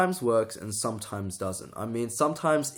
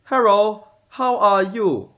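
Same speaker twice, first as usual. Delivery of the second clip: high, loud Asian accent, L turned to R in "Hello"; stretched Asian accent parody, "Hello" said as "herro"; mock Asian accent with R's; 10 semitones higher, 11 dB louder, slower than usual. Shown as a demonstration. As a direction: put on an Asian accent, swapping R for L. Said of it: "if you use it with the R's, you could go".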